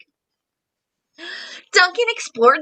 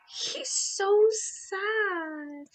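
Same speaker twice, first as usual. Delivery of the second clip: sad; 2 semitones higher, 12 dB quieter, much slower than usual. Acted. Sad dragon picture.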